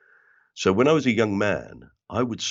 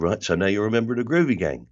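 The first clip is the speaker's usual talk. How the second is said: put-on quick, full South London accent; 3 semitones higher, faster than usual. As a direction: rattle it off like a Bermondsey local. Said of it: "my accent had completely slipped".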